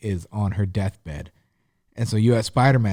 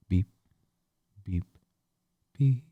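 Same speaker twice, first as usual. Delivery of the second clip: imitated monitor beep; 4 dB quieter than usual. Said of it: "you just hear beep".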